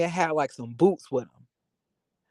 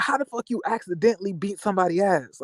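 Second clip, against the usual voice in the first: quick, higher mock disbelief; imitating an incredulous friend; 6 semitones higher, faster than usual. Friend mocks his accidental-fight excuse, fast incredulous quote. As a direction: fire it back fast in borrowed disbelief.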